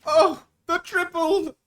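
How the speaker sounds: high, loud bursts; excited shouting. Real, not acted. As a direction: fire off each exclamation like an explosion. Exclaiming over big game play.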